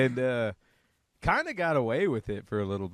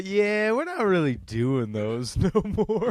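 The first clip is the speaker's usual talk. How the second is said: higher, stalling brush-off; imitating an awkward, reluctant refusal; mock evasive excuse; 6 semitones higher than usual. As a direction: draw out the yeah to wriggle out of it. Voicing an evasive excuse to Elon.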